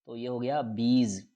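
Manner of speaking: बीज ending on a buzzing z; shown pronunciation. Shown as a demonstration. Teacher showing students the word, z ending in बीज. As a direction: close बीज with a z. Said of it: "उसका उच्चारण जैसे करना है".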